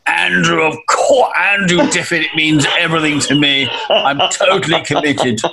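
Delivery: hint of a pleading minister, laughing; lightly voiced Andrew Mitchell, imitated; mock pleading Andrew. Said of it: "you can imagine the scene".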